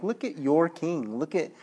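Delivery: lightly acted smirking remark; smart aleck. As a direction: imitate a smart aleck needling someone. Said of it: "this smart aleck remark saying".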